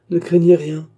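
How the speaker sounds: reassuring. A narrator's reading. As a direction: reassure her firmly. Kidnapper reassures the distraught girl.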